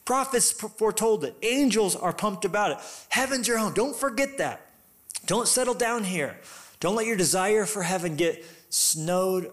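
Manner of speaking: rally them like a passionate apostle; fervent preaching. Acted. Apostle voiced urging the church.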